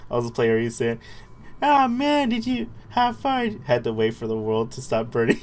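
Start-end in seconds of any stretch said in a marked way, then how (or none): 1.6-3.5 high cartoon whine; squeaky put-on voice. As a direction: play it as a cartoon sidekick. Put-on voice plays a line.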